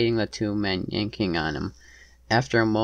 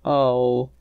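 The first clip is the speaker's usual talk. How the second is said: high, distressed "oh"; pitched-up, louder gasp of dismay; crying out; 4 semitones higher, 6 dB louder than usual. A narrator's reading. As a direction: cry out in shock. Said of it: "she cried out".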